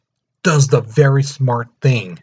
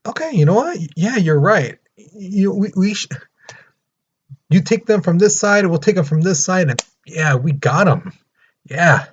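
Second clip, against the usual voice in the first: higher, eager, lightly voiced ally; eager Russia; 5 semitones higher than usual. Russia agreeing to help Serbia, higher and eager. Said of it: "So Russia's like".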